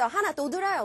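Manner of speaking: street vendor pitch. Shown as a demonstration. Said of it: "장사꾼처럼".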